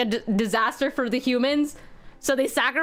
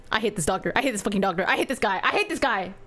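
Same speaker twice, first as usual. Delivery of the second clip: lower, muttered fuming; grumbling hate; 7 semitones lower, faster than usual. Real, not acted. Streamer cursing the game doctor, low seething grumble. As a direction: seethe it under your breath.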